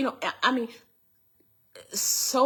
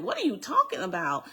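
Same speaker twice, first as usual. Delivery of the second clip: quick, slightly raised, mildly taken aback; retold puzzled question; 4 semitones higher, faster than usual. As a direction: ask it fast, in mild disbelief. Retold first reaction to threat.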